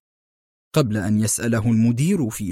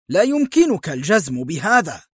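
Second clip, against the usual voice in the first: higher, mildly exasperated protest; angry retort; 5 semitones higher than usual. Acted. Michael arguing with Bernard, a touch of anger. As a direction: push back with irritation. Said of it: "صاح مايكل في حنق".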